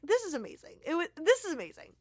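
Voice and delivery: high, fast, starry-eyed; giddy fan gush. Retold or imitated. Fan recalling meeting the singer, high giddy gush. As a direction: squeal it like meeting your hero. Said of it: "I was like".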